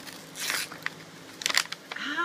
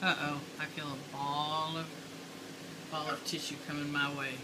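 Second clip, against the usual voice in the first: mock worried; 7 semitones lower, 9 dB quieter than usual. Tissue ball thrown at mom.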